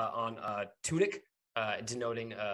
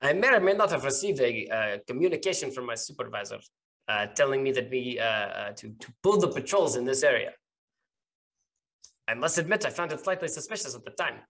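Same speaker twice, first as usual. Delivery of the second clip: halting officer's admission in character; suspicious captain. Acted. Captain admitting doubts about patrol orders, halting and suspicious. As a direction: admit it guardedly, feeling your way through.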